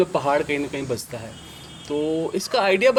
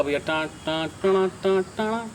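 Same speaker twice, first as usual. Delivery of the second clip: beatboxing groove; 4 dB quieter, much slower than usual. Shown as a demonstration. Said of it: "इस तरह का groove".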